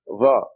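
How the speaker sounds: Va with a tongue-out heavy th-like Z; tongue sticking out. Shown as a demonstration. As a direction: say Va with the tongue out, like "thus". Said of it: "thus would be the closest".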